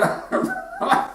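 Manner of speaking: very high comic sobbing squeal; mock wail. Old man breaking down over his wife, mock wail. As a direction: let out a put-on high wail.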